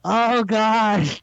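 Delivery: restrained retold yell of protest; drawn-out, mildly hammed-up yelling; mock yelling. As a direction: imitate someone yelling for it all to stop, without full volume. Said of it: "He's just yelling the entire time".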